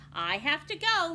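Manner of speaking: put-on loud, high, hurried girl; a girl rushing off.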